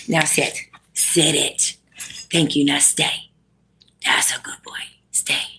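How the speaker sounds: low, hushed and steady; calm dog commands. Real, not acted. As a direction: quietly coax the dog to stay put. Settling the dog down.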